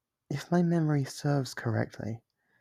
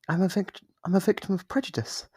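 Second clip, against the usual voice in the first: mock indignation; 7 semitones higher than usual. Demon claims to be a victim.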